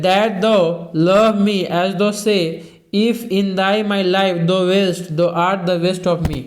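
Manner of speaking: slow, measured recital of verse; slow classroom poetry reading; poem reading. Acted. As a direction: read the verse slowly, line by line. Teacher reads poem lines aloud.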